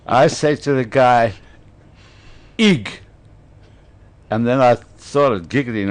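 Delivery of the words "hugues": "Hugues" high and short in French style; French pronunciation. Retold or imitated. Speaker giving his name to the guy, mock French accent.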